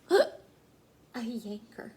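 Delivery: slow, drawn-out startled gasp; gasping in alarm. Acted. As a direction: gasp as if spotting something scary. Sister spots scary tool.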